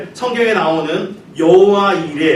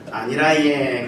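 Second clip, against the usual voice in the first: Gyeongsang dialect; 3 semitones lower, 3 dB quieter, slower than usual. Shown as a demonstration. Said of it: "경상도에서는요".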